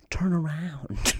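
soft, slow, through laughter; laughing quote. Retold or imitated. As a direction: say it while cracking up. Misheard request, he's laughing.

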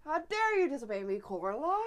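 plain retelling of the meme line; meme quote. Retold or imitated. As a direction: quote it lightly. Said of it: "I fucking love that meme".

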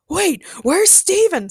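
high, loud, drawn-out cry; alarmed scream. A narrator's reading. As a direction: call out slowly in alarm. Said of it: "screamed Ray".

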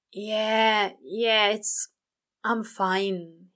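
weary demon, lightly voiced, far away; worn out, holding the angel at arm's length; tired and distant. A narrator's reading. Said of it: "sounding tired and distant".

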